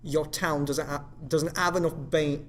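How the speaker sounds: loud, failed attempt at Cockney; badly faked Cockney, breaking off; Cockney accent. Shown as a demonstration. Trying the sample sentence, botched Cockney accent. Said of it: "And then we'll do Cockney".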